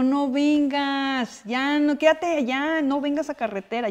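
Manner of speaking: high, very slow no vengas; drawn-out worried plea; a mother begging her daughter to stay put, slow and high; protective mom pleading. Retold or imitated. Mom telling daughter not to come.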